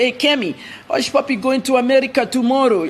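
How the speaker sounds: lightly put-on Arab accent; quoting a Gulf reporter in a light Arab accent; mock Arab accent. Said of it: "I'm speaking with his Arab accent".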